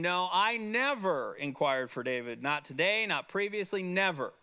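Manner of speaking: "never" stressed, insistent quote; strongly stated denial. Retold or imitated. Teacher voices Ahimelech denying he inquired, emphatic. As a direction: deny it point by point, leaning on "never". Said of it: "is how strongly that is being stated".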